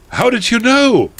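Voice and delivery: high, hammed-up astonishment; mock-amazed question swooping up high; surprised. Heroine questioning Voldemort, exaggerated surprise. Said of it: "I asked in a surprised way".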